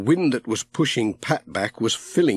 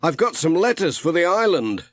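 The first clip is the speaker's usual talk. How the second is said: Pat; 6 semitones higher than usual. A narrator's reading. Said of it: "said Pat".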